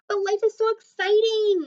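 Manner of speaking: high, loud burst of excitement; bubbling over with joy; excited. A narrator's reading. Excited shark protests.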